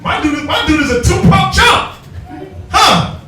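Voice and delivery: high, slow mocking voice of the sister. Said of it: "the sister be sitting there like".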